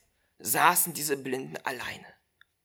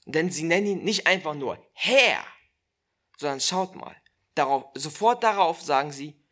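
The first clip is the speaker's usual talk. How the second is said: usual speaking voice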